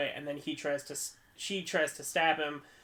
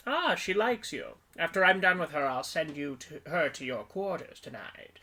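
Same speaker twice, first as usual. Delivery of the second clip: prototypical villain voice. Retold or imitated. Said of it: "my prototypical villain voice".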